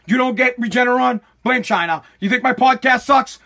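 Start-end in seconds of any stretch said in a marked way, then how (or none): 1.4-2.0 deadpan refrain. Pretend. Podcaster answering each gripe with one culprit, deadpan. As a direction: drop it low and offhand.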